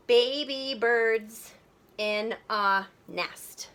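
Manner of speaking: very slow, syllables drawn apart; counting out syllables. Shown as a demonstration. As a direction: break it into separate beats, slowly. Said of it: "let's count the syllables".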